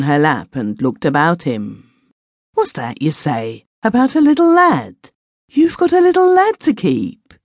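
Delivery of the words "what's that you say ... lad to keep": much higher, startled rising question; old father caught off guard, voice jumping up; surprised old man. Acted. Grandfather hearing of a little lad, startled and much higher.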